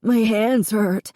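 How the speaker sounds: put-on burned boy telling his sister, sobbing slowly. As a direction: push the words out through sobs.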